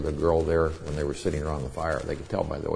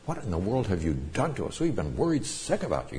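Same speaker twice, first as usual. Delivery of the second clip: lightly voiced scolding mom, pitch swinging up; a hint of a mother's anxious reproach; worried mother; 3 semitones higher, 3 dB quieter than usual. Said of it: "You can just see a mother saying".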